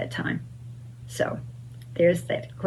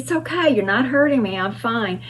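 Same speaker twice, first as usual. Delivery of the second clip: reassuring; 5 semitones higher than usual. Retold or imitated. A singer reassures the nervous girl.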